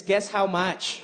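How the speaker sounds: mom's catchphrase. Retold or imitated. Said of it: "her catchphrase is".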